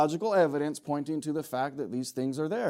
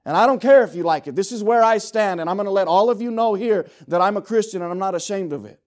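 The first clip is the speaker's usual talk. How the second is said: firm, raised voice, standing your ground; bold declaration; 2 semitones higher, 5 dB louder than usual. Retold or imitated. Preacher recounts telling new coworkers he's a Christian, bold. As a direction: announce it boldly and emphatically. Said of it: "I just boldly stood for the Lord".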